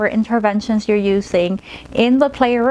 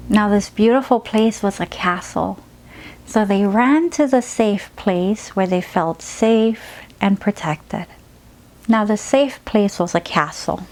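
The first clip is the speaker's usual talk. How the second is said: put-on gentle children's story read; storytelling to a child. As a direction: lull the child with the tale. Story narration of castle.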